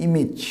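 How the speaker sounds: ইমেজ as "i-mij", short vowels; correct pronunciation. Shown as a demonstration. Teacher giving the correction, ইমেজ as "i-mij". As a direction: say ইমেজ with a short i in both syllables. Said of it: "এর সঠিক উচ্চারণ হবে".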